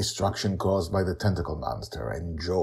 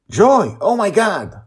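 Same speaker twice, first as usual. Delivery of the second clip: much higher and louder panicked yell; a father yelling as his daughter is threatened; 11 dB louder than usual. A narrator's reading. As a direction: cry out in alarm as danger nears. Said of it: "Justin yells".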